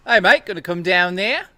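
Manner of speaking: loud, high attempt at German, sounding Australian; bad German accent. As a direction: botch a German accent with gusto. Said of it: "Okay, German?".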